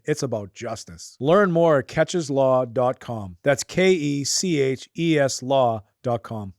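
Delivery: steady sponsor read, slowing on the web address. Acted. Host reads sponsor ad.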